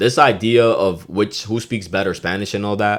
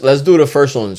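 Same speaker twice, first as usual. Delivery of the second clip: ordinary talk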